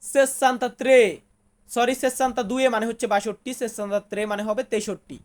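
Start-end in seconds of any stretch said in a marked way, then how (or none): 0.0-1.2 slow, syllable by syllable; slow demo. Shown as a demonstration. Teacher sounds out an Italian number for students, slowly. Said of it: "Italian ভাষাতে বলবো".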